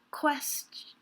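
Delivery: "quest" alone, stressed and broken off before "-ion"; the stressed first half of "question", "quest"; emphasized syllable. Shown as a demonstration. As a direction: hit "quest" and stop. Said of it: "is emphasized".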